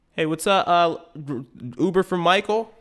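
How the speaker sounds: slightly high, casual fake-friendly; innocent rider. Rider greeting the Lambo driver, casually high. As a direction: play it cool before the punch.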